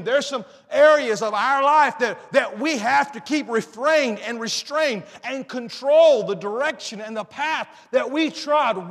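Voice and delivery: forceful sermon delivery, key words hit hard; emphatic preaching. Real, not acted. Preacher urging people to keep their feet from evil, emphatic preaching. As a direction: preach it with urgency to the congregation.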